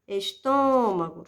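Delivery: "estômago" with a held "tô"; stress on antepenultimate syllable. Shown as a demonstration. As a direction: lean on the "tô" in "estômago". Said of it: "O mesmo acontece em". ("estômago" alongando o "tô")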